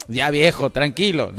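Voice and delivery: calming his son. Retold or imitated. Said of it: "a mi hijo le digo".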